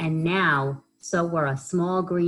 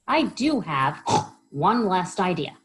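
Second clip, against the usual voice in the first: oinking Pig; 3 semitones higher, 3 dB louder than usual. Acted. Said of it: "oinked Pink".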